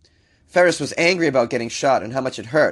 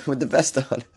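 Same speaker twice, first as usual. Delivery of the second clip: voice screwed from sickness. Real, not acted. Podcaster fumbling the news story with a cold, voice giving out. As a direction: stumble on a sick voice and laugh it off. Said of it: "my voice is f-, screwed 'cause I'm sick".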